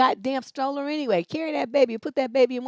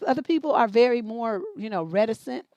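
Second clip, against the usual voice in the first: ordinary delivery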